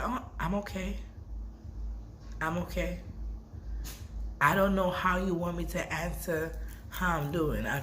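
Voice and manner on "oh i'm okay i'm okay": quiet forced okay. Retold or imitated. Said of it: "I just said".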